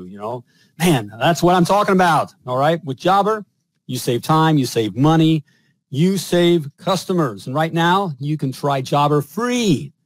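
pitchy sponsor read, punchy and selling; upbeat ad read. Acted. Podcast host reading a sponsor ad to plumbers, upbeat pitch. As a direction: sell it like a podcast ad spot.

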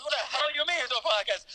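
high-pitched mock outrage; incredulous challenge. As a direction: imitate an indignant guard, pitched well up. Guard challenges him, acted.

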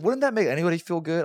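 high, loud, incredulous question; indignant appeal. Retold or imitated. Man defending his excitement to coworker, loud and indignant. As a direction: argue it loudly at a high pitch.

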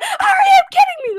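high, loud mock scream through laughter; screaming at Dora. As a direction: pretend exasperated yell, cracking up. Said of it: "I would be screaming at Dora".

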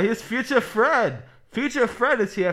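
Future Fred announced high, loud and slow; old-timey radio announcer. Retold or imitated. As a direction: draw out Future Fred like a forties broadcaster. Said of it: "old-timey radio voice".

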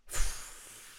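breathy scoffing huff; scornful sigh. Retold or imitated. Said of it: "il m'a fait un".

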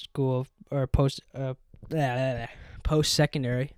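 short of breath while talking; words squeezed out on little air; running out of air. Real, not acted. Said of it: "I don't know why I'm out of breath so much".

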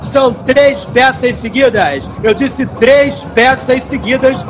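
hawking tickets to passers-by; street barker. Acted.

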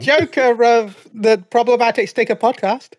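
slightly slow title announcement; lightly voiced court introduction; a hint of mock ceremony; royal herald. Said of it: "old royal intros where you just".

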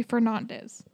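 "Fernandez" with a broad learner's "nahn"; high-school Spanish pronunciation. Retold or imitated. Teasing high-school Spanish students, "Fernandez" mispronounced as fer-NAHN-dez. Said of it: "took Spanish in high school".

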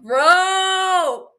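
high, loud burst of excitement; excited yelp. Real, not acted. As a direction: yelp it out, overwhelmed. Reacting to hot line.

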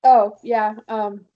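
strained, sneeze held in; holding back a sneeze. Real, not acted. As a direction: fight off a sneeze while talking. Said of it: "I was trying not to sneeze".

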